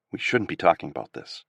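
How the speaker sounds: nervous guard keeping it secret; whispered. A narrator's reading. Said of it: "he whispered".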